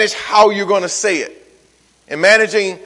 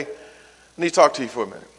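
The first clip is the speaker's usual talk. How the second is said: softer, slightly lower, composed; calm measured request; 3 semitones lower, 5 dB quieter than usual. Shown as a demonstration. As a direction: calmly ask for a word, voice held down. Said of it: "this is the tone you wanna use".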